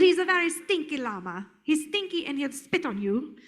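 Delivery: lightly hammed-up French llama; a silly, uncertain French accent; mock French accent. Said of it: "he talks with an accent".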